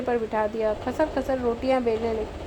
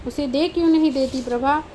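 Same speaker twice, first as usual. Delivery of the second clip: scolding; 3 dB louder than usual. Acted. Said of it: "मैंने डांट कर कहा".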